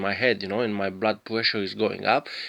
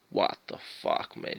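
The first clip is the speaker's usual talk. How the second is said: whispered disbelief; 13 semitones lower, 7 dB quieter than usual. Retold or imitated. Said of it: "It's like".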